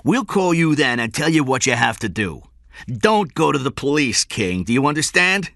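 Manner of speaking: menacing orders. A narrator's reading. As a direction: dictate terms that allow no argument. Kidnapper dictates ransom terms.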